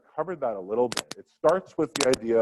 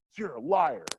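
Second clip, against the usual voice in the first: higher, accusing "liar"; student's mock accusation; 5 semitones higher than usual. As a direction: fling "liar" like an outraged student. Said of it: "they're yelling and they're pissed".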